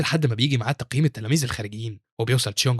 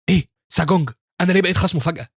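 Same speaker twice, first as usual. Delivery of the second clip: higher-pitched, startled questioning; shocked; 6 semitones higher, 4 dB louder than usual. A narrator's reading. Pupil learns who his opponent is, shocked. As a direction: react with sudden disbelief. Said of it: "فبيتصدم هو يونج وبيقول في نفسه".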